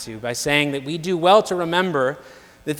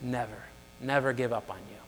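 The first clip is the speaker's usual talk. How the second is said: soft, tender reassurance; quietly affectionate; 3 semitones lower, 8 dB quieter than usual. Retold or imitated. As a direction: imitate a devoted butler, hushed and fond. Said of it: "with eyes full of affection".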